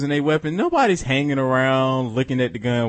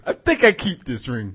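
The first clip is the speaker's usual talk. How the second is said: bad Russian accent; 4 semitones lower than usual. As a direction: lower mock Russian with a laugh in it. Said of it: "That's a terrible Russian accent".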